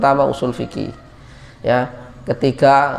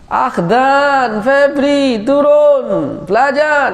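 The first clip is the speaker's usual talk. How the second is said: calling out; 9 semitones higher, much slower than usual. Retold or imitated. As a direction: shout them awake to study. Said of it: "kita teriak-teriak kan".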